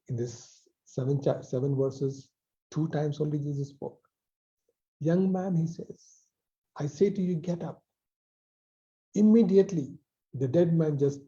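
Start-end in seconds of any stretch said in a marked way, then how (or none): 5.0-7.8 lifted command. Acted. Preacher repeating Jesus's call to the young man, raised firm command. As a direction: call him up with authority. Jesus's words quoted again.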